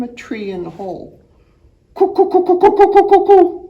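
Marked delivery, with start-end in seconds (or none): 1.9-3.6 high, loud cooing dove call; sing-song bird call. Acted. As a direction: coo it out like a dove. Reader voices woodpecker call.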